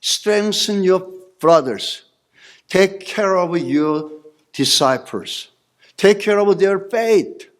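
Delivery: drawn-out, gentle charge; slow voice of Jesus. Acted. Jesus charging Peter to care for disciples, slow. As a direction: speak each word slowly, as a parting request.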